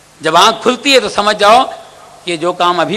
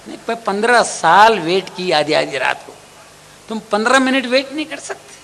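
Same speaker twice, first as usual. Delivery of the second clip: sarcastic wife retort. Acted.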